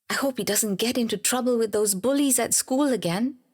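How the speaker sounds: mildly acted worry; worried thought.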